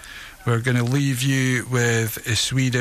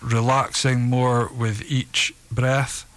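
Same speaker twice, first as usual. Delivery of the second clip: evenly paced relaxation script with pauses; guided relaxation. Acted. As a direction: guide them steadily through each breath and release. Reads a guided relaxation exercise.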